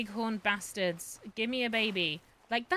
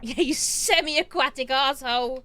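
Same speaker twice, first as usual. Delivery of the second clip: taunting yell; 6 semitones higher, 11 dB louder than usual. Pretend. Taunting the hunted animal.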